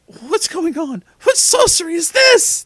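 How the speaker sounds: very high, panicked yell; high-pitched outraged yell. A narrator's reading. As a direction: start high and climb to a shriek. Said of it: "Jesus yelled".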